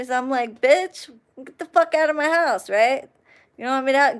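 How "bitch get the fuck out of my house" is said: pitched-up, indignant retort; mock outraged order, high-pitched; retold angry dismissal. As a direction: act out throwing her out, voice jumping high. Retold kicking her out after fight.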